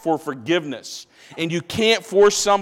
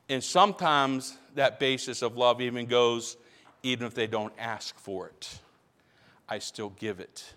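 much softer, lower and tender; hushed; 7 semitones lower, 10 dB quieter than usual. Real, not acted. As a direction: drop nearly to a hush. Tender point on forgiveness.

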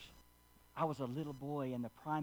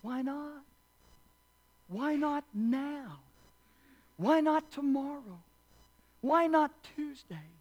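playful riff; 9 semitones higher, 4 dB louder, slower than usual. Acted.

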